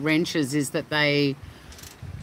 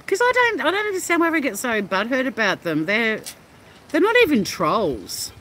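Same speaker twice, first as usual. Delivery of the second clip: exasperated outburst; 6 semitones higher than usual. Real, not acted.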